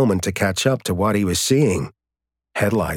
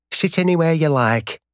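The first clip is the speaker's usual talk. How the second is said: higher pub landlady, broad Yorkshire; Yorkshire accent; 9 semitones higher than usual. Acted. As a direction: call it out, thick Yorkshire vowels. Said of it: "called out in a thick Yorkshire accent".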